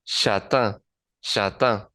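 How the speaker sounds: "châtain" with a nasal last vowel, no hard N; nasal IN ending. Shown as a demonstration. Teacher shows learners the word for brown-haired, "châtain" ending nasal. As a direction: end "châtain" on the French IN sound. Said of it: "predomina el sonido de la I N y decimos".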